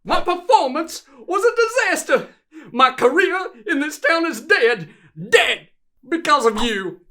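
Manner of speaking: emphatic, aggrieved outburst; bitter accusation. Acted. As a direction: lay the blame with rising heat. Customer blames repairer for disaster.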